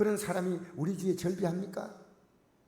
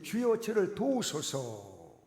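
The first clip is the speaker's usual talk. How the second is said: pleading; 4 dB louder, much slower than usual. Acted. Woman pleading, bowing.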